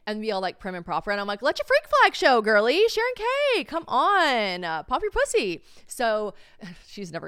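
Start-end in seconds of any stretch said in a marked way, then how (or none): 1.4-5.6 high, loud, egging her on; cheering a classy friend to let loose, loud and high; loud hyped cheer. Pretend. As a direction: shout it like a wild party hype girl. Urging prim friend to loosen up.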